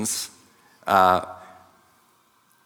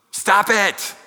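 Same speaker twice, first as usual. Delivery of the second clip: high-pitched exasperated mock scolding, building to a yell; rising into a hammed-up "stop it"; mock yelled command; 11 semitones higher, 4 dB louder than usual. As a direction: imitate a blunt counselor's order, pitched way up. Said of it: "yells at the top of his lungs".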